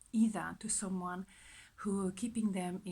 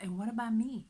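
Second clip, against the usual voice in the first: a touch louder, mock indignant; raised mock protest; indignant outburst; 3 semitones higher, 5 dB louder than usual. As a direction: push back for yourself, lightly. Inner voice quoted, indignant.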